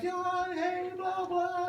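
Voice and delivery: high-pitched mock flirty woman; singled-out cutie greeting, high voice. Imitating the flirting star again.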